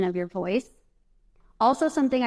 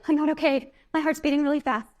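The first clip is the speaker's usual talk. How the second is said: higher, slightly panicky retelling; a touch of retold alarm; mock panic; 6 semitones higher than usual. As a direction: imitate her own past panic lightly. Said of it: "Before, I was just like".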